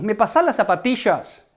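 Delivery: Rioplatense "zapatillas" with the ll said as sh; Rioplatense accent. Shown as a demonstration. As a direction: Rioplatense voseo, "zapatillas" with a sh sound. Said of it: "región rioplatense". (acento rioplatense, "zapatillas" con ll como sh)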